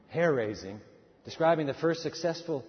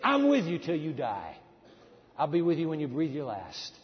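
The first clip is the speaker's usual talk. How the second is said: voicing God; 2 semitones higher than usual. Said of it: "God is saying".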